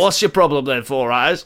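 lightly put-on London geezer, taunting; teasing London bloke, barely changed; London geezer accent. Dead granddad taunting grandson, light London accent. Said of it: "you're making me feel very uncomfortable".

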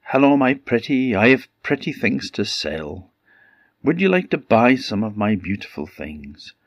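put-on old woman voice. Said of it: "an old woman came by".

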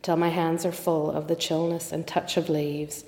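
measured, even poem recitation; poem reading. Acted. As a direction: read the verse aloud with steady, deliberate phrasing. Reads a poem aloud.

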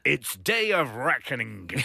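slow, chewed-over promo line; lightly hammed trailer voice; wrestling promo. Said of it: "chew it through".

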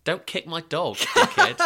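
quoting the line through a burst of laughter; laughing quote. Retold or imitated. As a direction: lyric cracks into a high laugh on dickhead.

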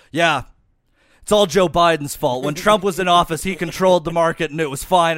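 loud, insistent Uber driver; emphatic quoted rant. Retold or imitated. Uber driver blaming Biden to his passenger, loud and insistent. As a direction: declare it loudly, laying the blame.

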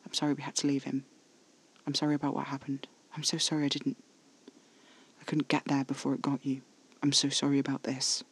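soft, hurried, hushed confession; whispered apology. A narrator's reading. Caspar apologizing for not getting there in time, hushed. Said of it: "he whispered".

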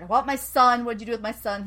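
half-acted frantic demand; acted flipping out. Podcaster imitating mother demanding her son, mildly flipping out. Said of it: "Because she flips out".

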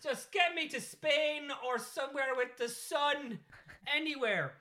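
high, slow yearning; longing plea. Pretend. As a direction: melt into a dramatic longing for the sun. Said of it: "as you can tell, eager to get out".

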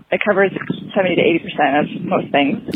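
breathless from walking the dog; winded, catching breath between words. Real, not acted. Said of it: "sorry, I'm a lot of breath. I've been walking the dog".

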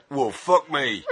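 a hint of a West Country musician, "well, fuck me" said with a laugh; lightly West Country Ronnie. Reading out Ronnie's reply from a band's tapes, faintly West Country. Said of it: "Ronnie, colon".

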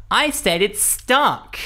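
high, slow, insistent repeat; exasperated demanding shopper, drawn out; entitled customer. Retold or imitated. Customer repeats himself, impatient.

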